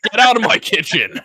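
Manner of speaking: furious kitchen yell; angry chef shout. Acted. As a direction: throw them out of your kitchen. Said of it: "I think, is angry people".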